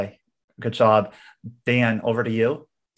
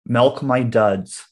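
slow, deliberate quote read; much slower than usual. Shown as a demonstration. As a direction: read each word slowly for the guessers. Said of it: "Three words, Emily".

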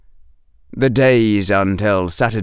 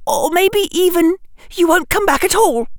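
a worried schoolgirl warning him; Hermione voice. A narrator's reading.

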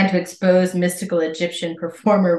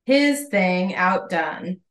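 slow mock announcement; much slower than usual. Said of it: "they said".

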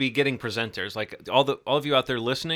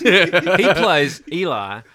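slow, dramatic; 3 semitones higher, 7 dB louder, much slower than usual. Pretend. Drawn-out delayed answer.

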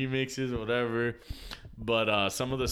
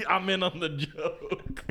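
high, slow put-on voice; lightly voiced conspiratorial friend; knowing friend; 7 semitones higher, slower than usual. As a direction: sell it like you're in on it. Friend's look voiced as line.

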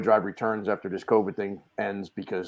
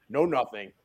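ordinary talk

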